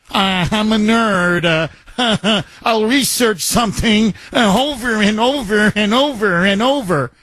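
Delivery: a light send-up of a candidate stalling; mock politician voice. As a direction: drag it out like a dodgy answer, mocking her. Mocking her town hall answer.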